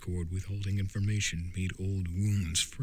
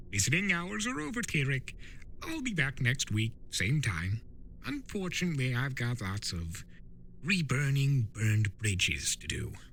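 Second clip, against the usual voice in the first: quick, chirpy trickster send-off, higher; Discord, breezy farewell; 6 semitones higher than usual. Acted. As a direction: wave goodbye brightly and quickly. Discord leaves cheerfully.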